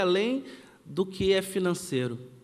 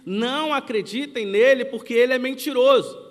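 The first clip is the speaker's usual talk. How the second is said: mother's pointed public announcement, voice raised somewhat; emphatic repeat; 3 semitones higher, 4 dB louder than usual. Retold or imitated. Mother repeating her warning to the class, louder and emphatic. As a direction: drive the repeated warning home firmly. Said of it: "Não, eu vou repetir".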